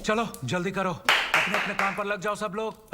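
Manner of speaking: brisk ordering. Acted. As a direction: call out orders to the household.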